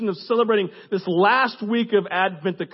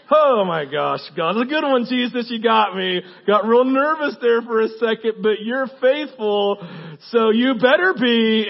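louder, higher relieved praise; relieved outburst; 3 semitones higher, 5 dB louder than usual. Retold or imitated. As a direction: blurt out your relief to God.

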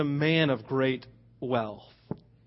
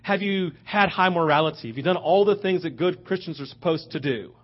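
raised pitch, pressing questions; animated preacher questioning; 3 semitones higher, 3 dB louder than usual. Retold or imitated. Preacher voicing Jesus questioning the rich young ruler, animated and pressing. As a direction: put a lively challenge to the listener. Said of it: "speaks to their Southern Christianity and says".

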